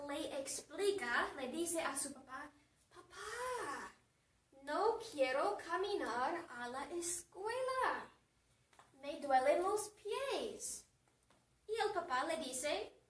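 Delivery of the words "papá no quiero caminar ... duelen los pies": put-on teen pleading with a parent; lightly acted daughterly complaint; mild whining. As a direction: whine lightly, stretching the last words. Daughter complains to her dad.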